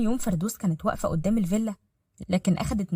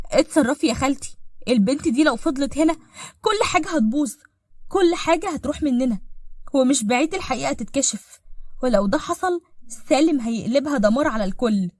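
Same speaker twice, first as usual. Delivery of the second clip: higher, agitated plea to act; anxious urgency; 4 semitones higher, 3 dB louder than usual. Acted. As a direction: press her aunt to do something. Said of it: "بلهفة".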